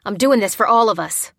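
loud, tense insistence; through gritted teeth. A narrator's reading. Bearded man justifying himself, tightly insistent. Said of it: "insisted through gritted teeth".

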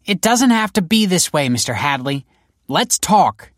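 high, loud projected negotiator; megaphone appeal. A narrator's reading. Detective to bomber over megaphone, loud high appeal. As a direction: project it to someone across the street. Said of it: "The detective raised the megaphone".

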